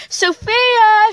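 mother calling her missing daughter, loud; yelling a name. Retold or imitated. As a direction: call out for the lost child. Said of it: "she yelled".

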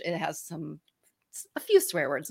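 hushed whisper on the swear words. Real, not acted. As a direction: drop to a confiding whisper. Aside about swearing in book.

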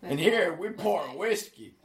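mock cowboy drawl. Shown as a demonstration. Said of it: "I can do that bad".

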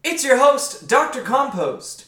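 high, slow, hyped host intro; podcast announcer voice. Acted. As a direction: announce the show like a radio host.

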